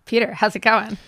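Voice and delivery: hoarse, rough voice; raspy voice. Real, not acted. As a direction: speak through a raspy throat. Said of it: "a raspy voice".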